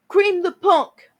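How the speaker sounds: slow, loud, high scream; screamed battle cry. Acted. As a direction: scream it at the enemy. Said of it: "Carice screamed".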